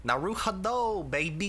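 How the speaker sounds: put-on Brooklyn accent. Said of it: "Japanese dude trying to do a fucking Brooklyn accent".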